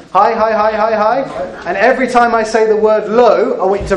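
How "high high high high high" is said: calling high, high, high. Shown as a demonstration. Calling out to the youngsters as they reach up, energetic. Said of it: "Reach as high as you can".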